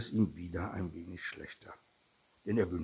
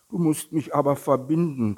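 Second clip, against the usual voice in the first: higher, louder demand; calling out; 6 semitones higher, 7 dB louder than usual. A narrator's reading. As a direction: call out as the insistent little tiger. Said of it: "rief der kleine Tiger". (fordernd gerufen)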